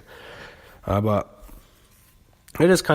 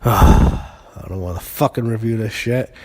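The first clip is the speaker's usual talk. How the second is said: louder, slow, fed-up complaint after a sigh; sigh, then drag it out, sick of it all; worn-out reviewer venting; exasperated; 7 dB louder, slower than usual. Real, not acted. Exasperated reviewer sighing before a dull match.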